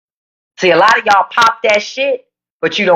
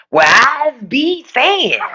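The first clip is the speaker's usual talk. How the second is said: mocking imitation; 4 semitones higher, much slower than usual. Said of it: "Why do you talk like that".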